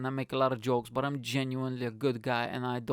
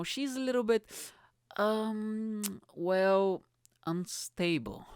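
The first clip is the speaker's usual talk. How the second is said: put-on hedging girlfriend; 8 semitones higher, slower than usual. Friend hedging, voiced higher.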